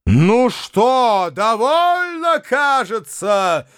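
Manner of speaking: high, slow outraged shout. A narrator's reading. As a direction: yell it out, drawing out the words. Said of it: "закричал Фома".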